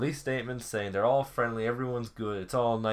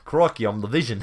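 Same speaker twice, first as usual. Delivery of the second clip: mock Australian; 5 dB louder than usual. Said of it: "Also went Australian for Paul Bettany".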